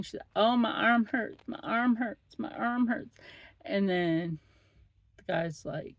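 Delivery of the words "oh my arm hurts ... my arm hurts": mock whine, a bit higher; whiny complaining patient. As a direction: imitate a patient moaning about her arm. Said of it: "she was complaining".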